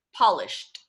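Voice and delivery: polished mit hörbarem T am Ende; clear ED ending. Shown as a demonstration. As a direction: land the final T in polished. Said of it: "we add an E D".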